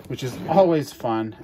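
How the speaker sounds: dry sarcastic tone. Acted. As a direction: say it like it's anything but fun. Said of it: "I'm being totally sarcastic".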